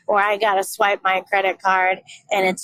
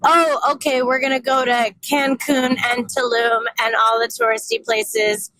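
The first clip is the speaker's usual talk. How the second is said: 1 mock cousins; 3 semitones higher than usual. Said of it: "that ended up being".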